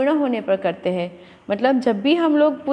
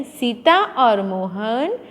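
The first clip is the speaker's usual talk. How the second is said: slow and spaced out for the class; teacher slowing down to show the pause; 2 semitones lower, much slower than usual. Shown as a demonstration. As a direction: stretch out Sita और मोहन घर गए word by word. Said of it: "फिर थोड़ा अटकना है".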